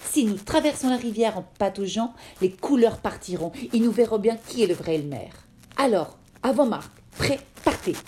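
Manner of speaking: rally the herd to the river; eager shouted call to race. Acted. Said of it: "un des éléphants cria".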